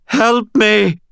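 high, loud snarling plea; snarled. A narrator's reading. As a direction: snarl it out desperately. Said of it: "snarled the gray ghost".

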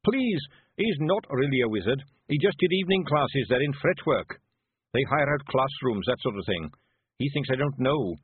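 frantic pleading. Acted. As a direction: plead for the boy, fast and scared. Zack Zack begging.

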